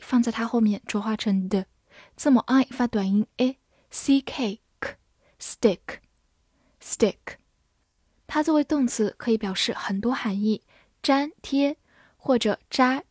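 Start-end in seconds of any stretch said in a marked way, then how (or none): 2.2-7.4 slow whispered spelling; whispered drill. Shown as a demonstration. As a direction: whisper the letters slowly. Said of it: "spelling explanation whispered".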